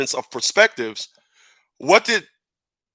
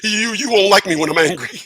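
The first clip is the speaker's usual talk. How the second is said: lightly voiced Banner warning, a bit higher; quoting Doctor Banner; 4 semitones higher than usual. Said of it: "He said".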